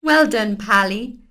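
warm praise. A narrator's reading. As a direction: praise him fondly. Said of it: "said Pilly".

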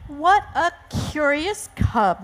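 intrigued storybook panda father; declaring in wonder. Acted. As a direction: marvel at a strange new baby. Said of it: "Mister Panda declared".

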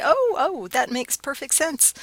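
high-pitched "oh, oh" of mock discovery; acted sudden realization. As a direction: act out a student suddenly getting it. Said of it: "you'll say".

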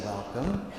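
a lightly voiced gracious welcome; beautiful voice. Blessed Mother greets visitors in a beautiful voice. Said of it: "this beautiful voice".

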